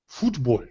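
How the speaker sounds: "football" low and soft, first vowel long as in food; put-on foreign pronunciation. Shown as a demonstration. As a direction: say "football" as FOOT-bol with an "oo" as in food. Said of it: "you have to say it that way".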